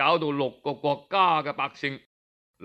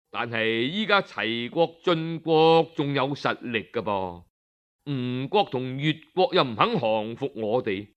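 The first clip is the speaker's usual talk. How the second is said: lower, measured counsel to a king; cautious minister; 5 semitones lower than usual. Acted. Zheng Dan advises the king against attacking Zhou, low and cautious. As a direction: warn the king gently but firmly.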